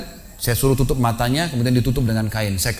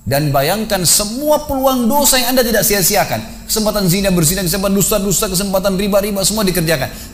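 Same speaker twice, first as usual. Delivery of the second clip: forceful preaching; 6 semitones higher than usual. Retold or imitated. Preacher warns man lying in shroud, forceful and rising. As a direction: drive each sin home like a final reckoning.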